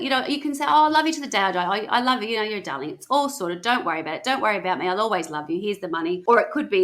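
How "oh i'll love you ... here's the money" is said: lightly acted easygoing fondness; casual loving reassurance. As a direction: toss off fond reassurance to an ex. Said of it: "But it could be love it".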